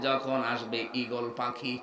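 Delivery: slow, soft demo of the mistaken meaning যখন আসবে eagle পাখি; wrong meaning shown. Shown as a demonstration. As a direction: read the wrong version quietly and slowly, as a warning example. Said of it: "তাহলে বাংলা অর্থ হবে".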